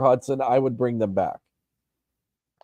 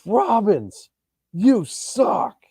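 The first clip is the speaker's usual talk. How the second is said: high-pitched imitation of a screaming fan, not truly loud; mock fan yell; 9 semitones higher, much slower than usual. Season-ticket fan heckling the punter, mild mock yell. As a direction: mimic a heckler's cry at higher pitch, held back in volume. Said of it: "He just screams so loud".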